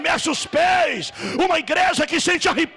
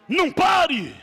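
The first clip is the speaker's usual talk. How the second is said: sudden shout; 3 semitones higher than usual. Real, not acted. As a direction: throw it out to the whole church. Urges the church to keep worshipping. (pregador gritando de repente para a igreja não parar)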